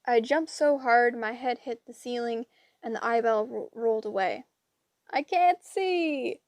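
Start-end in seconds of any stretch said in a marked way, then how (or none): 5.1-6.4 slow, much higher wailing hag cry; panicked old crones yelling. A narrator's reading. Blinded Grey sisters yelling in panic. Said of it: "three sisters yelled".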